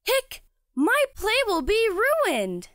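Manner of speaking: hiccuping and worried; hiccups. Acted. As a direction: talk through the hiccups. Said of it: "monster case of hiccups".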